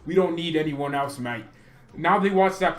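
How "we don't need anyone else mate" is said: light mock British accent; a hint of a British bloke saying mate. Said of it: "I'll just use a British accent".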